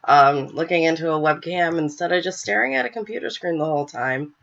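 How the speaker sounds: blocked nose from a cold; stuffy nose. Real, not acted. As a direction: talk through a stuffy head cold. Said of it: "sorry about my cold".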